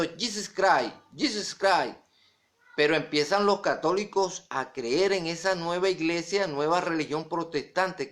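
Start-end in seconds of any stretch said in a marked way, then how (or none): 0.0-2.0 "Jesus Christ" said in English, as JEE-sus CRY; English pronunciation. Shown as a demonstration. Preacher showing how it was pronounced here, "Jesus Christ" in English.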